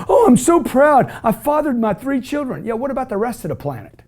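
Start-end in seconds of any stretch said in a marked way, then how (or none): 0.1-2.6 mock smug pride. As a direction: ham up a self-satisfied parent. Mocking a smug proud parent.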